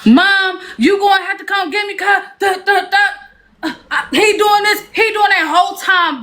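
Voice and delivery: high, hurried whining with a laugh; mock whiny call. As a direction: imitate a grown woman begging mom to fetch her. Mimicking her calling her mom.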